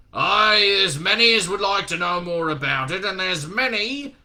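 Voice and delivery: loud gruff voice slowing and fading away; Shadwell trailing off. Acted. Shadwell to Newton on the phone, trailing off ominously. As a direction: build then let it hang ominously. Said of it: "the voice trailed off impressively".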